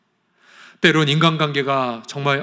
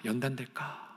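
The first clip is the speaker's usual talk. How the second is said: 연단될까 repeated much softer, like an inner echo; 2 semitones lower, 16 dB quieter than usual. Shown as a demonstration. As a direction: let the second 연단될까 fall away quietly to yourself. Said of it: "이런 생각을 단 한 가지만 해본다고 생각해 보십시오". (연단될까를 혼잣말처럼 아주 작게 되뇌기)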